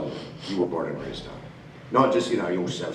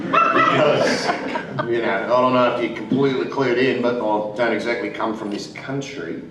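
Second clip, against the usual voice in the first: casual Australian accent; relaxed Aussie lilt. Shown as a demonstration. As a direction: chat easily in an Australian accent. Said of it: "is this one".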